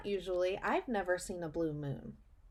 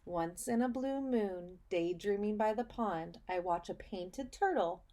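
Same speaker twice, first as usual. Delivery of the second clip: put-on reading to children. Teacher reading a picture book to her students, storybook voice. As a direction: read it like storytime for little kids.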